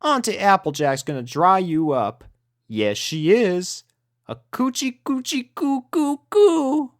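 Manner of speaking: put-on sing-song baby talk. A narrator's reading. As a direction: coo at the puppies like babies. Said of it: "Applejack's baby talk".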